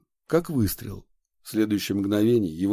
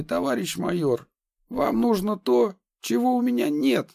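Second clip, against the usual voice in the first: nervous; 8 semitones higher than usual. Acted. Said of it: "Излишне нервно произнёс он".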